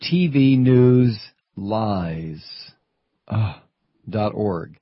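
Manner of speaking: very slow, spaced-out letters; slow spelled out. Shown as a demonstration. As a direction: spell out each letter slowly. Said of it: "It's right there in the web address".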